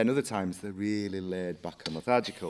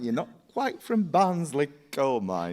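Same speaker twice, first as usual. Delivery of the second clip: mock rein-in; 5 semitones higher, 5 dB louder, slower than usual. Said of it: "It's like".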